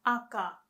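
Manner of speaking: aka with an open Japanese a; open-mouthed Japanese aka. Shown as a demonstration. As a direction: show the right open aka. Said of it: "it's aka".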